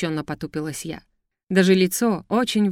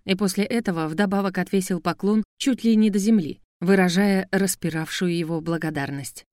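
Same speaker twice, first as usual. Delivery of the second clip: ordinary delivery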